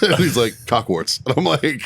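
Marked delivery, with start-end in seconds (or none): 0.7-1.2 imitating a casual, open admission; retold matter-of-fact answer; nonchalant. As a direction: say it as no big deal. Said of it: "all just open and nonchalant about it".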